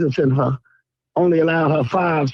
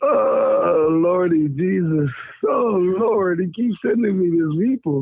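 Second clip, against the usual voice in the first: lightly voiced Marcus, moaning Lordy Jesus through leftover laughter; mock preacher's groan of Lordy Jesus; Marcus impression; 3 semitones higher than usual. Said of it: "There go Marcus Sarah for you".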